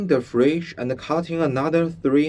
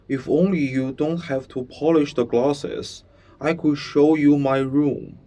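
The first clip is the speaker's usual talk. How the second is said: put-on boy voice; 3 semitones higher, 4 dB louder than usual. Bruno voiced in story.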